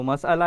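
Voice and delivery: مسئلہ as "mas-ala"; three-syllable "mas-a-la"; correct pronunciation. Shown as a demonstration. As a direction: keep the middle "a" in مسئلہ, after a separate "mas". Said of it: "اس کا اصل تلفظ ہے".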